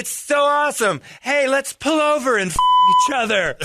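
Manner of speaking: very high, loud camp mock voice; high mocking voice to Mark and Larry; mock gun guy. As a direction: ham up the creepy invitation. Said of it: "I'm like, You guys".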